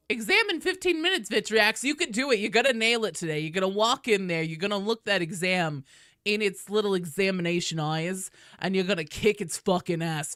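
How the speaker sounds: put-on a doting old lady hyping up a nervous student; old lady pep talk. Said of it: "There's your old lady pep talk".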